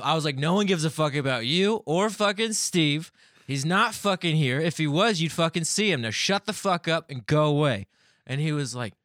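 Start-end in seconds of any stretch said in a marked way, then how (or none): 0.4-7.9 loud, higher angry rant; heated. Retold or imitated. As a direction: replay a heated telling-off at full volume. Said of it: "got heated, man".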